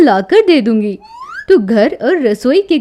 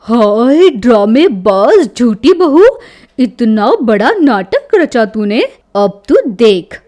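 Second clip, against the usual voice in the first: indignant mother-in-law; 6 semitones lower, 6 dB louder than usual. A narrator's reading. Mother-in-law fuming inwardly at lying daughter-in-law, indignant. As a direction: fume at the liar and threaten payback. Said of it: "और मन ही मन".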